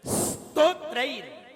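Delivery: "स्तोत्रैर" slowly, from a long pure s; no i before "स्तोत्रैर"; correct pronunciation. Shown as a demonstration. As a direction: draw out the initial s of "स्तोत्रैर". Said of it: "क्या बोलना है?".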